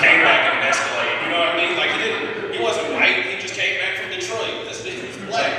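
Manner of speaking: high and loud, riding the joke; excited. Real, not acted. Building the Jesus bit loudly.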